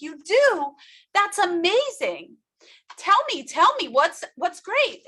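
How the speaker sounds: hungry for the good news; eager. Retold or imitated. Her eager reply to news.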